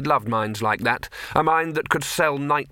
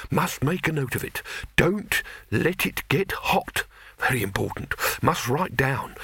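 dazed alchemist; 3 semitones higher than usual. Acted. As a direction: mumble notes to yourself, half concussed. The alchemist rambling.

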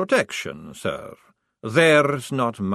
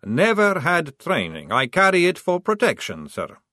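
patient; 4 semitones higher, 4 dB louder than usual. Acted. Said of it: "said Maledict patiently".

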